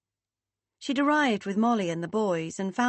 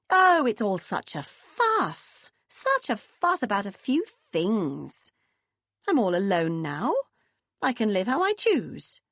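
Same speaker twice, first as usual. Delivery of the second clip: put-on breezy, dismissive older mother; mother playing it down. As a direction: brush it all off lightly. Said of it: "playing it down".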